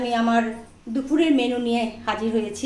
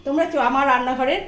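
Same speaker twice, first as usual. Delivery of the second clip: calling friends to eat. Real, not acted. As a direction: call everyone to the table.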